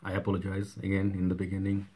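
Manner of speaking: rough voice from a cold; hoarse sick voice. Real, not acted. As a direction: speak through a bad cold, hoarse. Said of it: "a sort of like a creepy voice".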